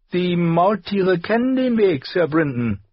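high, bright-voiced assurance; a wiry girl cutting in boldly; confident young girl. A narrator's reading. Myra interjects. (hohes, selbstsicheres Mädchen)

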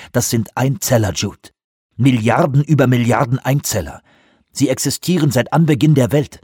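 growing anger. Acted. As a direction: let the fury build question by question. Johansson's rising argument.

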